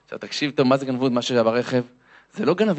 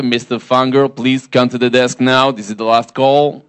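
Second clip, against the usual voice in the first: loud, slow final-call announcer; loud, drawn-out public address voice; airport PA announcement; 2 semitones lower, 6 dB louder, much slower than usual. Retold or imitated. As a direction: imitate an insistent airport page. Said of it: "כריזה נוספת".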